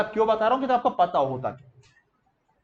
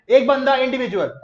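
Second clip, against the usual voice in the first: raised, louder classroom chant; call-and-repeat drill; 5 semitones higher, 6 dB louder than usual. Shown as a demonstration. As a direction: lead the class to say it along. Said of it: "चलो मेरे साथ, मेरे साथ बोलो". (कक्षा से दोहरवाते हुए, ऊँची आवाज़ में)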